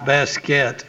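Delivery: "Basket" with a crisp final t, no -ins; "Basket" said as the everyday word basket. Real, not acted. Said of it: "Basket, right".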